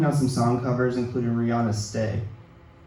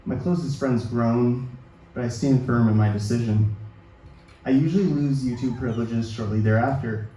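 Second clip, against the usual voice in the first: ordinary talk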